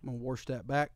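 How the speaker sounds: "warsh" said with an r before sh; intrusive r. Shown as a demonstration. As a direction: slip an r into "warsh". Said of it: "I do say warsh".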